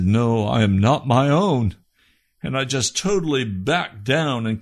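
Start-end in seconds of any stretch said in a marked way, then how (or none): 0.0-1.7 loud, forceful retold avowal; emphatic declaration. Man answering God as the words ring in his soul, emphatic. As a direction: proclaim it loudly as a sudden realisation.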